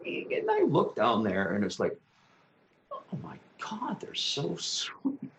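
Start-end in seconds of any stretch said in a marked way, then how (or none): 2.9-5.3 unvoiced, slow tender whisper; hushed delight at the kids; awed whisper. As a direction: breathe it softly, charmed. Watching kids down the block.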